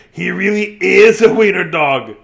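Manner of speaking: jeering dogs. A narrator's reading.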